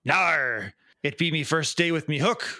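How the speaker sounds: lightly voiced old sea pirate growling his tale; a hint of a salty pirate spinning a yarn. Joke-teller voicing the pirate to the bartender, light pirate voice. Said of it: "a pirate walks into a bar".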